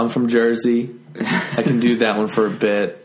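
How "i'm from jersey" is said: lightly done New Jersey accent; a hint of Jersey on "I'm from Jersey". Shown as a demonstration. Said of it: "I'll just stick to, uh, the ones that I have".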